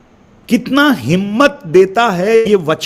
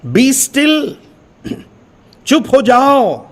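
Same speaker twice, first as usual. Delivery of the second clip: higher, slow, solemn reading of the verse; 5 semitones higher, much slower than usual. Acted. Preacher reading the psalm verse to listeners, solemn and slow. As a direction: lift the voice and read it like scripture.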